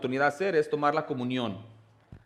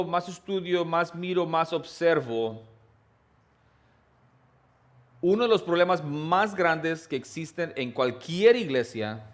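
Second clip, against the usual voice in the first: slow, raised and pressing; building sermon emphasis; 3 semitones higher, slower than usual. Acted. Pastor urging the congregation, slow and intense. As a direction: draw it out to make them listen. Preacher builds to his main point.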